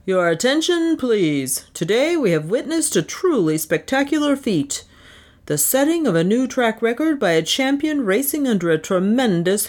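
track official calling to the crowd; lightly voiced official hailing the stands; crying out announcement. Official announces to the racetrack crowd, calling out. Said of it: "cried the chief official".

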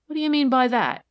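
high, loud challenge; indignant demand. A narrator's reading. Girl challenges officer's comparison with Sadie, demanding. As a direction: demand an explanation, affronted. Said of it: "demanded the girl".

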